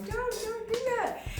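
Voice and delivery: high-pitched urgent plea; pleading high. Retold or imitated. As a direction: squeal it out, begging her to stop. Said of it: "and I'm going".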